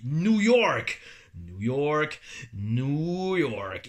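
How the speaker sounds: New York crié façon annonceur; annonceur ring. Pretend. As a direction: clame la ville comme au ring. (voix d'annonceur de catch qui clame New York)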